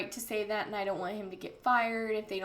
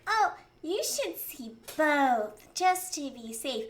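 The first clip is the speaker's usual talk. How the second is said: mocking doctor; 3 semitones higher, slower than usual. Imitating the neurologist's advice.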